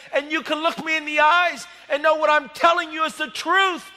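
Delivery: loud, earnest declaration; loud earnest proclamation to the judge; preaching boldly. Retold or imitated. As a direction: stand firm and proclaim it to the judge. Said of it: "I'm talking like this".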